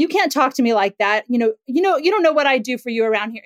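put-on a parent snapping back at a rude child; reactive scolding. Shown as a demonstration. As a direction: lose your cool and attack back. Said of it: "you just start going and you attack back".

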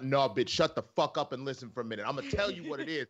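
level, no-nonsense put-down; firm interruption. Acted. Explaining racism to someone who interrupts, firmly. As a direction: cut in firmly, without pitching it up. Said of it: "clearly having to explain some racism".

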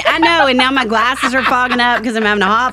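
high, gushing, teary-happy reunion; loud and high, flustered by happy tears; emotional greeting. Real, not acted. Guest greeting the host after they both cried, emotional and high. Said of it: "'cause I got emotional".

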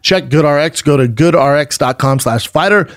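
upbeat sponsor offer, web address drawn out slowly; ad read. Real, not acted. Host giving listeners a mattress deal, ad read. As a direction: sell the deal, then spell out the address slowly.

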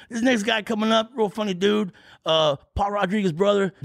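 high, hyped club emcee announcing; hyped emcee intro. Retold or imitated. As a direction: announce him like a cheesy host. Promoter introducing comic on stage.

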